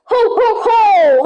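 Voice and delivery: hammed-up Santa ho ho ho; lightly voiced Santa chuckle; Santa laugh. A child playing Santa greeting the others, mock jolly. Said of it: "I'll call from the Santa".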